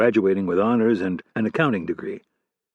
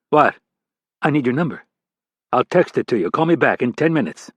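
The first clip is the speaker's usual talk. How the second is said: stern boss voice; 2 semitones higher than usual. Acted. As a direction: bark it like an irate boss. Hargrave voice again.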